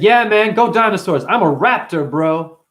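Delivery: loud, pumped-up cheer; making a kid's day with dino talk; excited hype. Retold or imitated. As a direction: hype the kid up. Speaker hyping up the kid.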